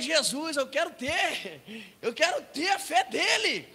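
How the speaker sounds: high, loud, drawn-out cry to Jesus; slow, pleading outcry; fervent plea. Acted. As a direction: build into an impassioned prayer. Preacher cries out prayer to Jesus.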